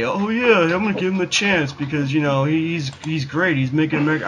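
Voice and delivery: sing-song naive fan voice; mock Trump supporter. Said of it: "because I don't fucking say".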